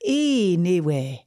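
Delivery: slow, poor Geordie accent attempt; badly attempted Geordie. Shown as a demonstration. Second try for the coaches, badly attempted Geordie accent. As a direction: have a clumsy go at Geordie. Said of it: "It was quite bad".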